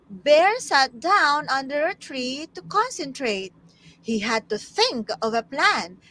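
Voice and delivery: put-on animated storybook narration for children; story reading. Tutor takes her turn reading to class, animated storytelling. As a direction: read aloud with swinging, emphatic phrasing.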